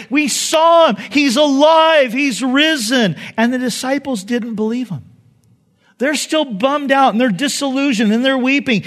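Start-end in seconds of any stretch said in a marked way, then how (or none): 0.1-3.2 excited. Acted. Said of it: "They're like".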